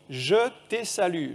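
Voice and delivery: slow "Je t'ai salu", "te" turned into "tai"; angel's little accent. Acted. Preacher assembling rebus syllables, angel's little accent. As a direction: sound out "Je t'ai salu" piece by piece. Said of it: "bon, il a un petit accent".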